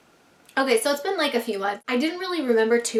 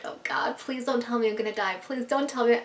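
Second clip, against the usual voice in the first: nervous pleading; 4 dB quieter than usual. Retold or imitated. Nervous before psychic reading.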